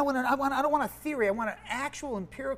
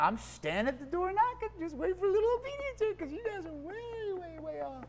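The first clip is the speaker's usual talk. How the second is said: higher, softer, lightly voiced Jesus pleading; a light, higher and softer take on Jesus inviting himself in; gently voicing Jesus; 10 semitones higher, 5 dB quieter than usual. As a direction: coax them as Jesus at the door, softly and high. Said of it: "Jesus is going".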